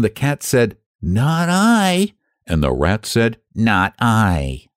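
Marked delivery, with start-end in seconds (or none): 1.0-2.1 much higher gleeful cat no; snippy cat. Acted. Cat gleefully refusing the hen, high voice. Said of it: "snippy glee". 3.5-4.7 a lightly voiced rat, mild glee; a small smug no; snippy rat. Rat smugly refusing the hen, lightly voiced. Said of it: "snippy glee".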